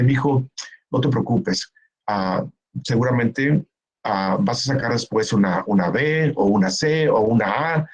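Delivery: reassuring parent. Shown as a demonstration. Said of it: "para generar resiliencia es decirle".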